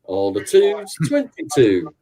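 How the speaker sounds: slow, sing-song number calling; bingo caller. Shown as a demonstration. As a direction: call the numbers like a bingo hall. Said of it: "give us a little demonstration of how you call the numbers".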